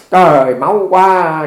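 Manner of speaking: loud, slow gasp of dismay; shocked exclamation. Retold or imitated. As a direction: blurt out alarm at the blood. Dog bit his hand, bleeding.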